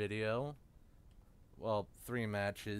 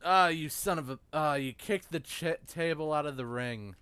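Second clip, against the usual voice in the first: annoyed outburst; 3 semitones higher, 4 dB louder, faster than usual. Real, not acted. Frustrated at game.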